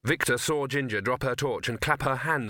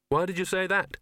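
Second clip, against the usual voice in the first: higher, uneasy question; a touch of dread; 7 semitones higher than usual. Acted. Victor alarmed at remark.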